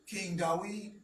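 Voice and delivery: "Dawid" with a W, as dah-WEED; W instead of V. Shown as a demonstration. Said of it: "They didn't have a V".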